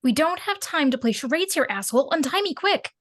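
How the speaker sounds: urgent and frantic; urgent whisper-shout. Acted. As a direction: hurry him, tense. Gagged woman freed, urgent.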